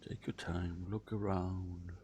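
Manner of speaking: soft, unhurried guiding voice; hushed prompts with room to breathe; guided visualization. Acted. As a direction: gently guide them inward, leaving long pauses.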